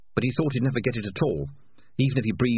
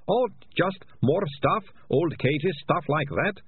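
evasive; 8 semitones higher, slower than usual. A narrator's reading. Ratcatcher nervously hiding the truth.

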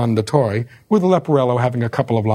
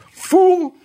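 much higher, loud snapped insult; retorted insult; 3 dB louder than usual. Retold or imitated. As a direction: bark it back high and loud. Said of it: "And he says".

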